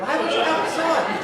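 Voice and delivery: loud shocked shout; shouted echo. Acted. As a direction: yell it back in alarm. Echoes the shocked question louder.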